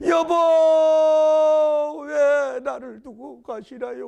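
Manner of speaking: loud, high, long-drawn wail; wailing widow. Acted. Widow mourning her husband, acted wailing. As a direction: cry out slowly, hammed-up grief. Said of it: "울고 이러니".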